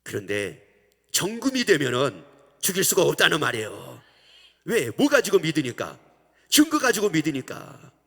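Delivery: loud, forceful sermon delivery; preaching. Acted. Preacher pressing the congregation, at full force. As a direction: drive the point home to the congregation.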